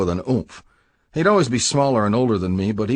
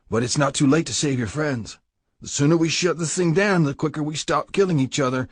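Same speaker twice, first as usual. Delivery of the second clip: a threatening club boss, pitched higher, cold and hard; menacing biker president; 6 semitones higher than usual. Acted. Prez pressures the prisoner.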